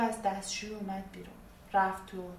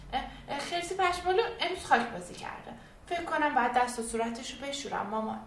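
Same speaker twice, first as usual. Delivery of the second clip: put-on higher, eager child voice with a new excuse; girl's quick excuse; 4 semitones higher than usual. Girl tells mom the teddy needs washing, eagerly childlike. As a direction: jump in before mom finishes. Mahtab makes another excuse.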